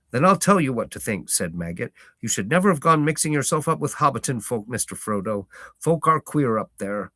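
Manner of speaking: country farmer shooing a stranger off his lane; gruff farmer. Acted. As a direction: warn off a stranger, firm and blunt. Maggot voiced in story.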